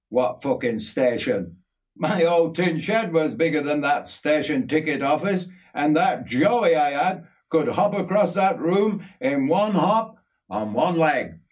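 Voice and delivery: lively mock disbelief; joking Yorkie. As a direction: scoff jokingly at a mate's claim. Voices narrator's younger self joking.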